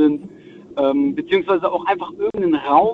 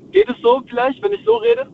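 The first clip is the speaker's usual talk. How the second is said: speaking up. Real, not acted. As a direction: raise the voice so the host can hear. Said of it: "ansonsten musst du ein bisschen deutlicher und lauter sprechen".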